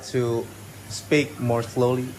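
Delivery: slow, careful delivery with pauses. Shown as a demonstration. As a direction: ease off the pace, spacing out the words. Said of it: "Yeah, like that".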